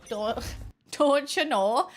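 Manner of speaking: slow, laughing Minnesotan "don't you know"; slow mock Minnesotan, laughing; imitating Minnesotan accent. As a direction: drag it out Minnesota style through a giggle. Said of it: "here's an example of Minnesotan".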